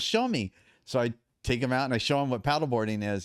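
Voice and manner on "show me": put-on much higher Thai accent; imitating Thai trainer. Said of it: "He goes".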